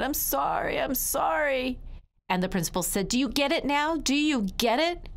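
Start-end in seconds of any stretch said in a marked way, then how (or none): 0.0-1.8 small, high, contrite voice; tearful child. Acted. Tearful child apologises to everyone watching. 3.1-5.1 high, pressing questions; raised pitch, demanding an answer; insistent principal. Acted. Principal drives the lesson home.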